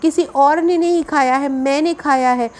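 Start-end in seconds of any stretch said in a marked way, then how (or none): 1.5-2.5 मैंने emphasized as a contrast; stress on मैंने. Shown as a demonstration. Teacher contrasting with someone else eating, stress on मैंने. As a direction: hit मैंने to rule out anyone else. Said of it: "इस बात को बल लगाकर बोल रहे हैं".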